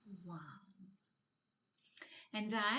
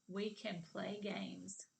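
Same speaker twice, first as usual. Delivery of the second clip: slow whispered sentence; hushed slow classroom whisper. Shown as a demonstration. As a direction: whisper each word to the kids. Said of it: "whispered take".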